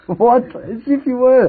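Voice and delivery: high, slow sarcastic drawl; sarcastic disbelief. Real, not acted. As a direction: scoff at the obvious lie. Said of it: "sarcastic retort to agent".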